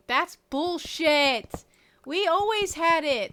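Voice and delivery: slow, loud indignant yell; outraged shout. Real, not acted. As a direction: bellow it in disbelief. Outraged, defending childhood website.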